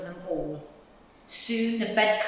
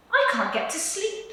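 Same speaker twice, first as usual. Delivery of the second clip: small, high squirrel voice; a tiny cold squirrel asking; 14 semitones higher than usual. Acted. Squirrel at Percy's door, high and pleading. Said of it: "said the squirrel".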